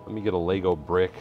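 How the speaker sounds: ordinary delivery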